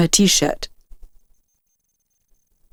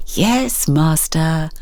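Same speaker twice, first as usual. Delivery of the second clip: teasing; much slower than usual. Acted. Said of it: "Luke teased".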